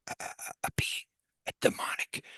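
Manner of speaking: halting, fearful stage whisper. Retold or imitated. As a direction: whisper it haltingly, as a terrified witness. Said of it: "this minister guy is whispering".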